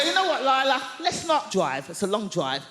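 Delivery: mock cheerful suggestion to her friend; bright idea. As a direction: pitch the plan with a bit of flair. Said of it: "I go".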